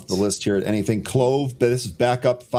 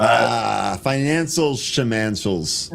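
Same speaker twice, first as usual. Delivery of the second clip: drawn-out, mock-dismissive wave-away; sarcastic; much slower than usual. Co-host jokingly brushing off the company's financials, sarcastic. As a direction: stretch the rhyming nonsense word with dry sarcasm. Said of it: "I'm being sarcastic".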